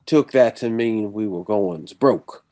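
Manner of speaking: put-on slow, eased-in Southern accent that lands near Tennessee; Texan accent, slowed. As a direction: ease into a slow Texas drawl. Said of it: "you sound like you're from Tennessee".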